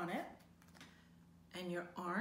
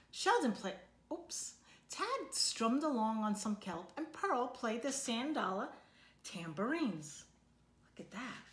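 lively storybook read-aloud for a class; reading to children; 2 semitones higher, 3 dB louder than usual. A narrator's reading. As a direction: read it like a picture book to kids. Teacher reads picture book aloud.

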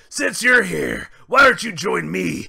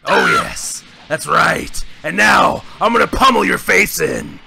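gleeful threat. Acted. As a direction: promise pain with relish. Broly gloats, threatens.

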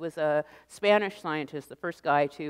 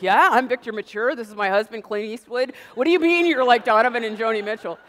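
louder mock sarcasm; sarcastic retort; 4 semitones higher, 7 dB louder than usual. Answering the neighbors, loud sarcastic disbelief. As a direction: scoff as if they're kidding. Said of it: "I'm like".

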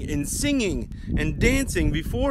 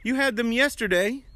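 puzzled donkey; 4 semitones higher than usual. Acted. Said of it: "I imagine him thinking".

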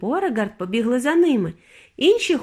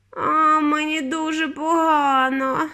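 raised, slow, sickly groan; moaning; 6 semitones higher, slower than usual. A narrator's reading. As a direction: moan it out as if very ill. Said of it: "застогнала Віолетта".

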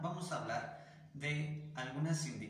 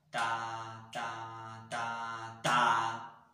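last "ta" slammed far louder than the first three; marcato on four; 10 dB louder, much slower than usual. Shown as a demonstration. Teacher demonstrating marcato on beat four, final "ta" blasted. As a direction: save the big hit for the fourth "ta". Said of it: "lo ponemos solo en el tiempo cuatro".

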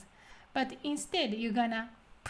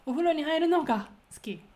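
お風呂に入るのが pushed higher and firmer, then 好き; emphatic のが, raised pitch; stress on のが; 4 semitones higher, 3 dB louder, much faster than usual. Shown as a demonstration. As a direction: punch up の before が to emphasize it. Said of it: "So you emphasize more".

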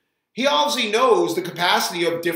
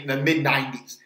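usual speaking voice

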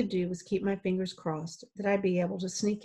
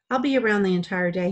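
entire said louder and leaned on; emphasis on entire; 7 dB louder, faster than usual. Acted. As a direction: hit the word entire. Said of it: "adding emphasis to entire".

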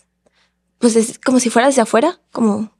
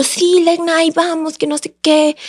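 higher-pitched imitated friend on the way; urgent agreement; 5 semitones higher, slower than usual. Friends answering her call for help, imitated urgent agreement. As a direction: answer the plea at once, pitched up.

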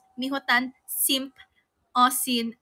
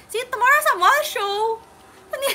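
laughing; 9 semitones higher, 5 dB louder than usual. Real, not acted. Laughing while saying goodbye.

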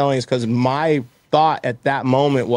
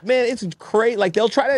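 laughing through the words, pitched up; cracking up mid-sentence; 9 semitones higher than usual. Real, not acted. Laughing as he tells the host about trolls. Laughing while telling story.

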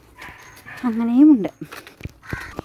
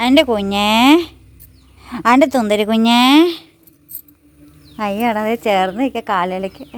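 tender cooing; 2 semitones lower than usual. Real, not acted.

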